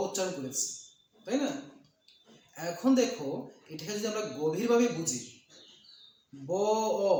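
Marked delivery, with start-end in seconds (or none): 6.3-7.1 ব আর অ আলাদা করে টেনে বলা; "ব"-এর পরে "অ" স্পষ্ট শোনাও; টেনে ধ্বনি ভাঙা. Shown as a demonstration. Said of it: "ব এর পরে অ উচ্চারণ করেছি". ("ব অ" ধ্বনি ভেঙে উচ্চারণ)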